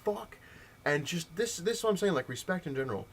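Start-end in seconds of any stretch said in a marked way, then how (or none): 0.0-0.4 higher, louder mock tantrum, slowing on the insult; indignant retold outburst, pitched up. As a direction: imitate a kid flipping out at a clerk. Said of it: "So he flips out".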